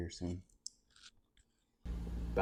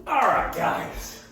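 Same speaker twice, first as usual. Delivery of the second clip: slow sing-song high greeting; high drawn-out greeting; 11 semitones higher, 4 dB louder, much slower than usual. Acted.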